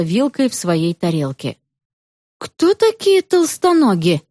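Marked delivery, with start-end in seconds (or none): none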